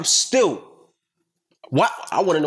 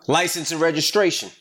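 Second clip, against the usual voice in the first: louder, higher cop repeat; the same demand pushed up, fed up; 4 semitones higher than usual. Retold or imitated. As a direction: raise it a notch, impatient cop. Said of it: "So he gets louder".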